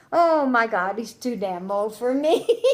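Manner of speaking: half-laughing oh my God; laughing disbelief. Retold or imitated. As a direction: laugh through the memory of the shock. Recalls her shocked thought, laughing.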